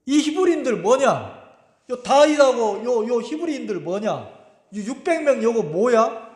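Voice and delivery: mock-indignant officers interrogating the king; demanding generals. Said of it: "장군들이 따지는 거예요".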